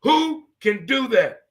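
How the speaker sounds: marveling at Michael's stillness; awed. Real, not acted. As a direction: stretch it out in awe. Marveling, drawn out.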